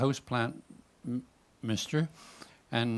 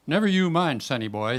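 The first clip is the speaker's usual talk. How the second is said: salmon voice; 3 semitones higher, 5 dB louder than usual. Acted. Salmon brushing off the kayak attendant, cocky character voice. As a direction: brush off the young attendant, gruff and dismissive. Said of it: "Salmon talk like this".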